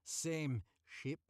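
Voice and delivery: loud, high Scottish growl. Acted. Keeper insists to Jack in a loud Scottish growl. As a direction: bark it out, Scottish and gruff. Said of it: "he growled".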